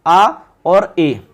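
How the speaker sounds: each vowel drawn out slowly for the class; slow, spelled out. Shown as a demonstration. Teacher naming vowels to students, very slow and deliberate. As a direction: lay the two vowels out one by one, slowly. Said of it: "अब देखो यहाँ पर".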